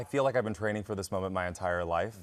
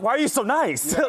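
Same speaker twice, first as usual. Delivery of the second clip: tearful retold plea; 8 dB louder than usual. Asking J Lo through tears.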